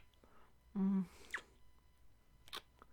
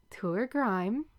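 said slower. Shown as a demonstration. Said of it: "say it with me".

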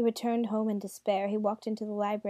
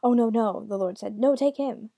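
panicky; 7 dB louder than usual. Acted. Lord panics at devil's threat.

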